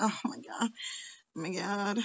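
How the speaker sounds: real whispered aside; whispered disbelief. Real, not acted. Dismayed at how little time passed.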